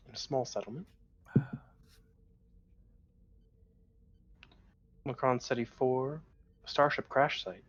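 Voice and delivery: ship computer reporting, even tone; lightly voiced computer readout; robot voice. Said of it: "nothing but robot voices".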